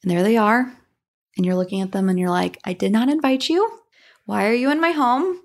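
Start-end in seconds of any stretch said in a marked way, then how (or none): 2.6-5.4 indignant. Pretend. Confronting unwelcome house guest.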